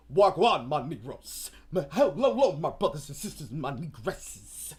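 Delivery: mock grand speech. Mock tribal director speech.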